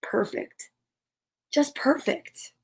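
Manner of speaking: hushed, breathy whisper of relief; soft relieved whisper, slow at the end. A narrator's reading. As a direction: whisper it together, satisfied. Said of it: "and all whispered at once".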